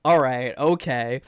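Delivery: slow, drawn-out deadpan acceptance; resigned okay. Retold or imitated. Retelling being scolded by Kogorin, slow resigned okay. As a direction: drag out a defeated okay. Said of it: "And I was like".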